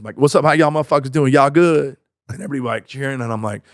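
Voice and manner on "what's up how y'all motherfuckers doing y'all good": hammed-up Black American accent opener; joke urban accent. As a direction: open a set in an exaggerated urban accent. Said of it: "I started opening up my set like this".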